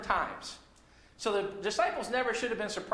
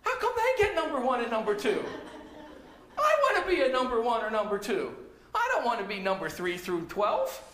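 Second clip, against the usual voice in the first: louder, laughing jealous complaint; jealous whine; 2 semitones higher, 4 dB louder than usual. Retold or imitated. Other disciples grumbling about the top spots, loud and laughing. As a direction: whine about being left out. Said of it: "they're thinking".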